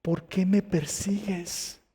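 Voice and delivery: lightly voiced divine call, slow question; voice from heaven. Jesus calls down to Saulo on the ground, lightly voiced slow appeal. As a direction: draw the question out slowly. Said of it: "oyó una voz que le decía".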